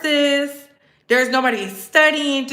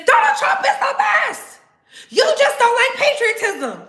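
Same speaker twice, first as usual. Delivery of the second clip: very high hammed-up shout; mock supporter outrage; 10 semitones higher than usual. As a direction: imitate a fanatical supporter shrieking. Acts out maga fans arguing back.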